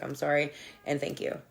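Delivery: low, soft, heartfelt thanks; sincere apology. Retold or imitated. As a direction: say it quietly and mean it. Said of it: "And I meant it".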